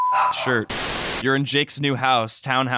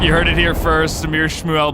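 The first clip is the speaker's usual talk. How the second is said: big mock announcer, louder; 4 semitones higher, 4 dB louder than usual. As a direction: proclaim it like a news flash. Mock announcement of guest's location.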